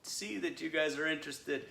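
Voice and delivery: übertriebener, schlechter italienischer Akzent, leicht gespielt; mock Italian accent, half-hearted; bad Italian accent. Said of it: "that's a really bad Italian accent".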